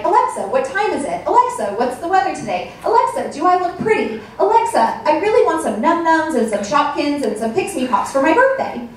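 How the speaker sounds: put-on high childlike voice asking Alexa; light mock little girl; imitating little daughter. Mom voicing her young daughter talking to Alexa, childlike. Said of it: "she would say things like".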